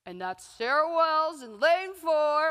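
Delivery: slow, drawn-out stadium announcer call. Retold or imitated. Mimicking the stadium announcer calling her lane, slow. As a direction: boom it like the PA. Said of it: "hearing the announcer over the P A system say".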